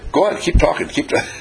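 teacher pleading to keep going, high and lively; eager teacher. Retold or imitated. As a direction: beg the speaker to continue. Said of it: "the teacher says".

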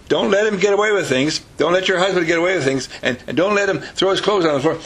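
hammed-up busybody warning; acted nagging advice. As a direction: nag the new bride with urgent advice. Voices meddling advice to the bride.

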